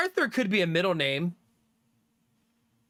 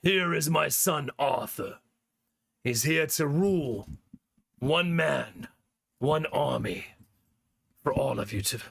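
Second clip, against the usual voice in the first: slow, lower, regal announcer voice presenting his son; mock-epic herald voice, lower and slower; grand royal proclamation; 4 semitones lower than usual. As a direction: proclaim it like a king introducing his heir. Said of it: "talking to him like this all the time".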